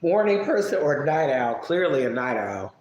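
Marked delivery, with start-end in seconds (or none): 1.6-2.7 talking through a yawn; sleepy yawn while speaking. Real, not acted. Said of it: "even though I'm yawning".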